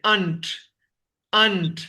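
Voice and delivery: "अंट" repeated as one syllable without r; each "अंट" set apart, r silent; contracted pronunciation. Shown as a demonstration. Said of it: "अंट pronounce करते हैं".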